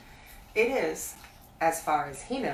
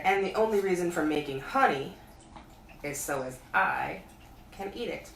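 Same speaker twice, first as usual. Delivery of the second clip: Pooh pondering. Acted. Pooh thinking aloud.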